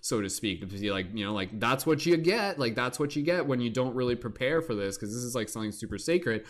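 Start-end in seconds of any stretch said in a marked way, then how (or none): 1.6-5.0 mock scolding, pitched up; a teasing scold from the universe. The psychedelic scolding a careless tripper, mock stern.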